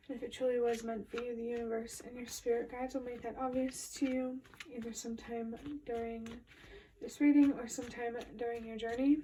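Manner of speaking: slightly breathless talking; out of breath. Real, not acted. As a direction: speak a little winded. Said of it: "If it sounds like I'm out of breath".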